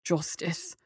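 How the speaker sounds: quiet, gentle naming; the judge gently saying Justice's name; softly. Acted. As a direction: say her name softly to calm her. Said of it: "the judge said softly".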